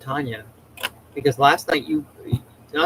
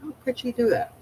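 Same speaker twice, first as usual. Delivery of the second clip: shocked disbelief; 10 semitones higher than usual. Retold or imitated. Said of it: "I'm like".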